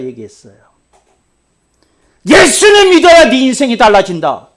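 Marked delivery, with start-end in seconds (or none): 2.2-4.5 loud, high gospel call; preaching shout; proclaiming shout. Retold or imitated. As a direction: proclaim it with full force. Retold declaration.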